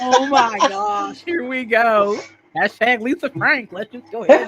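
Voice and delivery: high, loud delighted tease; real giddy excitement; excited squeal. Real, not acted. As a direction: squeal at the cheesy image. Excited teasing about Lisa Frank.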